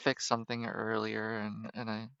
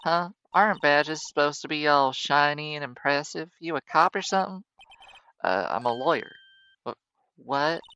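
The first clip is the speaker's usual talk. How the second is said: combative southern photographer; 6 dB louder than usual. Acted. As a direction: challenge them with a Southern twang. Southern character challenges lawyer.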